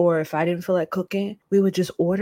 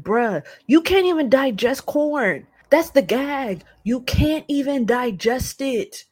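exasperated; 5 semitones higher, 3 dB louder than usual. Retold or imitated. Exasperated retort about corn.

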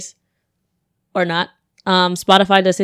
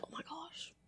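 breathless whisper of dismay; whispered oh my gosh; 8 semitones higher, 33 dB quieter than usual. Retold or imitated. Whispering to herself as the cop questions her, stunned whisper. Inner reaction to cop's question.

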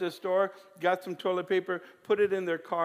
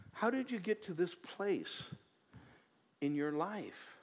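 much softer, tender repeated questions; gentle questioning; 8 dB quieter than usual. Acted. Preacher voicing God gently asking the worn-out listener, soft and tender. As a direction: ask it softly, like a caring father.

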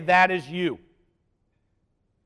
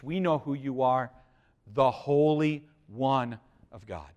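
softer, slowed We know who you are; hushed demons' words; 5 semitones lower, 6 dB quieter than usual. Retold or imitated. Preacher retelling the demons naming Jesus, hushed and slow. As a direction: drop to a hush, drawing out the Holy One of God. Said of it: "But they said to Jesus".

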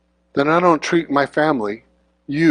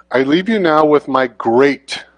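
slow scripture read; slower than usual. Shown as a demonstration. Reading scripture aloud slowly.

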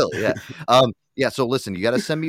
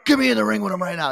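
growl, then higher-pitched fired-up demand; jacked-up boxer; 8 semitones higher, 4 dB louder than usual. Retold or imitated. Host imitating Tony demanding to fight Raccoon, jacked up. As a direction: imitate a pumped-up fighter raring to go. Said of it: "he's gonna get so fucking jacked up".

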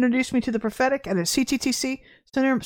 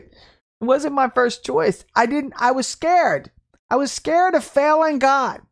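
slow confession; 3 semitones higher, slower than usual. Real, not acted.

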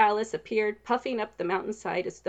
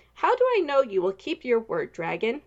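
angry; 3 semitones higher, 5 dB louder than usual. Acted. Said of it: "anger rising".

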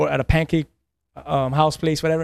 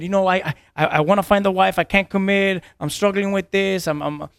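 higher-pitched venting, complaint after complaint; 4 semitones higher than usual. Retold or imitated. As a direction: unload your troubles as if retelling a rant. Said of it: "I'm just venting".

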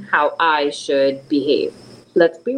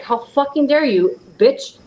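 indignant retort; 8 semitones higher, slower than usual. Retold or imitated. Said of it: "and you're like".

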